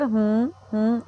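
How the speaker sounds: put-on short rising hmm, coaxing the child on; encouraging hmm. Shown as a demonstration. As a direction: hum हम्म to nudge the pupil forward. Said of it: "हम जब ऐसे बोलते हैं". (बच्चे को आगे बढ़ाने वाला हम्म)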